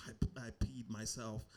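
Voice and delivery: soft, whispered confession; hushed admission. Retold or imitated. Wife confessing to husband, acted hushed admission. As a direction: let it slip out under the breath. Wife's embarrassed admission, retold.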